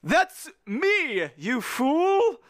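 high, loud protest; exasperated yell. A narrator's reading. Crewman grabbed by his mate, indignant yell.

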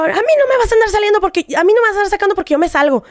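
retold angry retort; defiant comeback. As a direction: throw it back at him, outraged.

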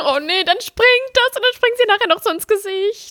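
half-laughing squeal of disgust; laughing horror. Real, not acted. Imagining cockroach jumping.

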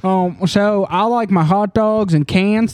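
slow, put-on American accent. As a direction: draw it out in a mock American accent. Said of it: "I'm gonna do my American accent".

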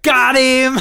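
high laughing cheer of triumph; excited cheer. Retold or imitated. Podcast host mimicking kids cheering at a film, excited cheer. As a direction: cheer it like a gleeful teen.

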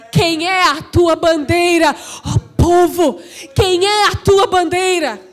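impassioned, shouted exhortation; full-force preaching. Real, not acted. Preacher urging the church to defend its nation, full force. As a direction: ring each command out to the congregation.

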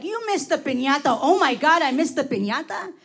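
ordinary delivery

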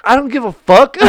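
high, loud exasperated retort, near laughing; exasperated outburst. Retold or imitated. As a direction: burst out, fed up and half laughing. Mock refusal to cousin's texting.

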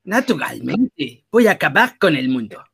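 slow, drawn-out mock villain voice in Tuca's accent; lightly voiced villain from an old film; old movie villain. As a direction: ham up a cartoon villain plotting world domination. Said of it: "habla como villano de película viejita".

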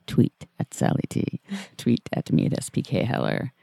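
whispery late-night vampire voice. Acted. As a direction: purr it like a lurking vampire. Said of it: "That's your nighttime voice".

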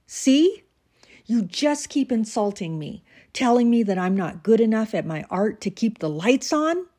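a sharp high See, then bitter complaint; angry retort. Acted. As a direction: snap back, hurt and accusing. Husband lashing out at wife.

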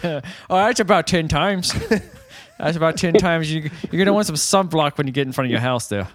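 a hint of Jersey accent; goofy Jersey clerk accent. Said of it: "bad Jersey accent".

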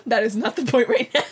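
amused exasperation, laughing while talking; laughing protest. Real, not acted. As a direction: object through real laughter. Laughingly protesting co-host's tangent.

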